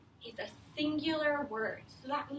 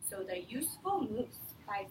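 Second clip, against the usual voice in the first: whispering; 4 semitones lower, 5 dB quieter than usual. Acted. Whispered title reading.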